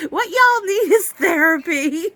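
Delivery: slow laughing verdict. Real, not acted. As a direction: laugh through the punchline. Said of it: "laughing at the book".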